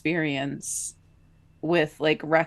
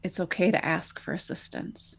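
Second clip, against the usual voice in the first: gentle reassurance; 7 dB quieter than usual. Retold or imitated. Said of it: "he leaned over and he said".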